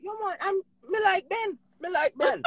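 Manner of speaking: high, goofy mock dad voice; imitating dad. Daughter imitating her dad praising Ben, high goofy voice. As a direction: play dad fumbling a compliment. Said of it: "He's like".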